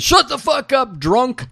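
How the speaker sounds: high-pitched mock-angry outburst; retold irate yell; Chad. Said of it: "Chad says".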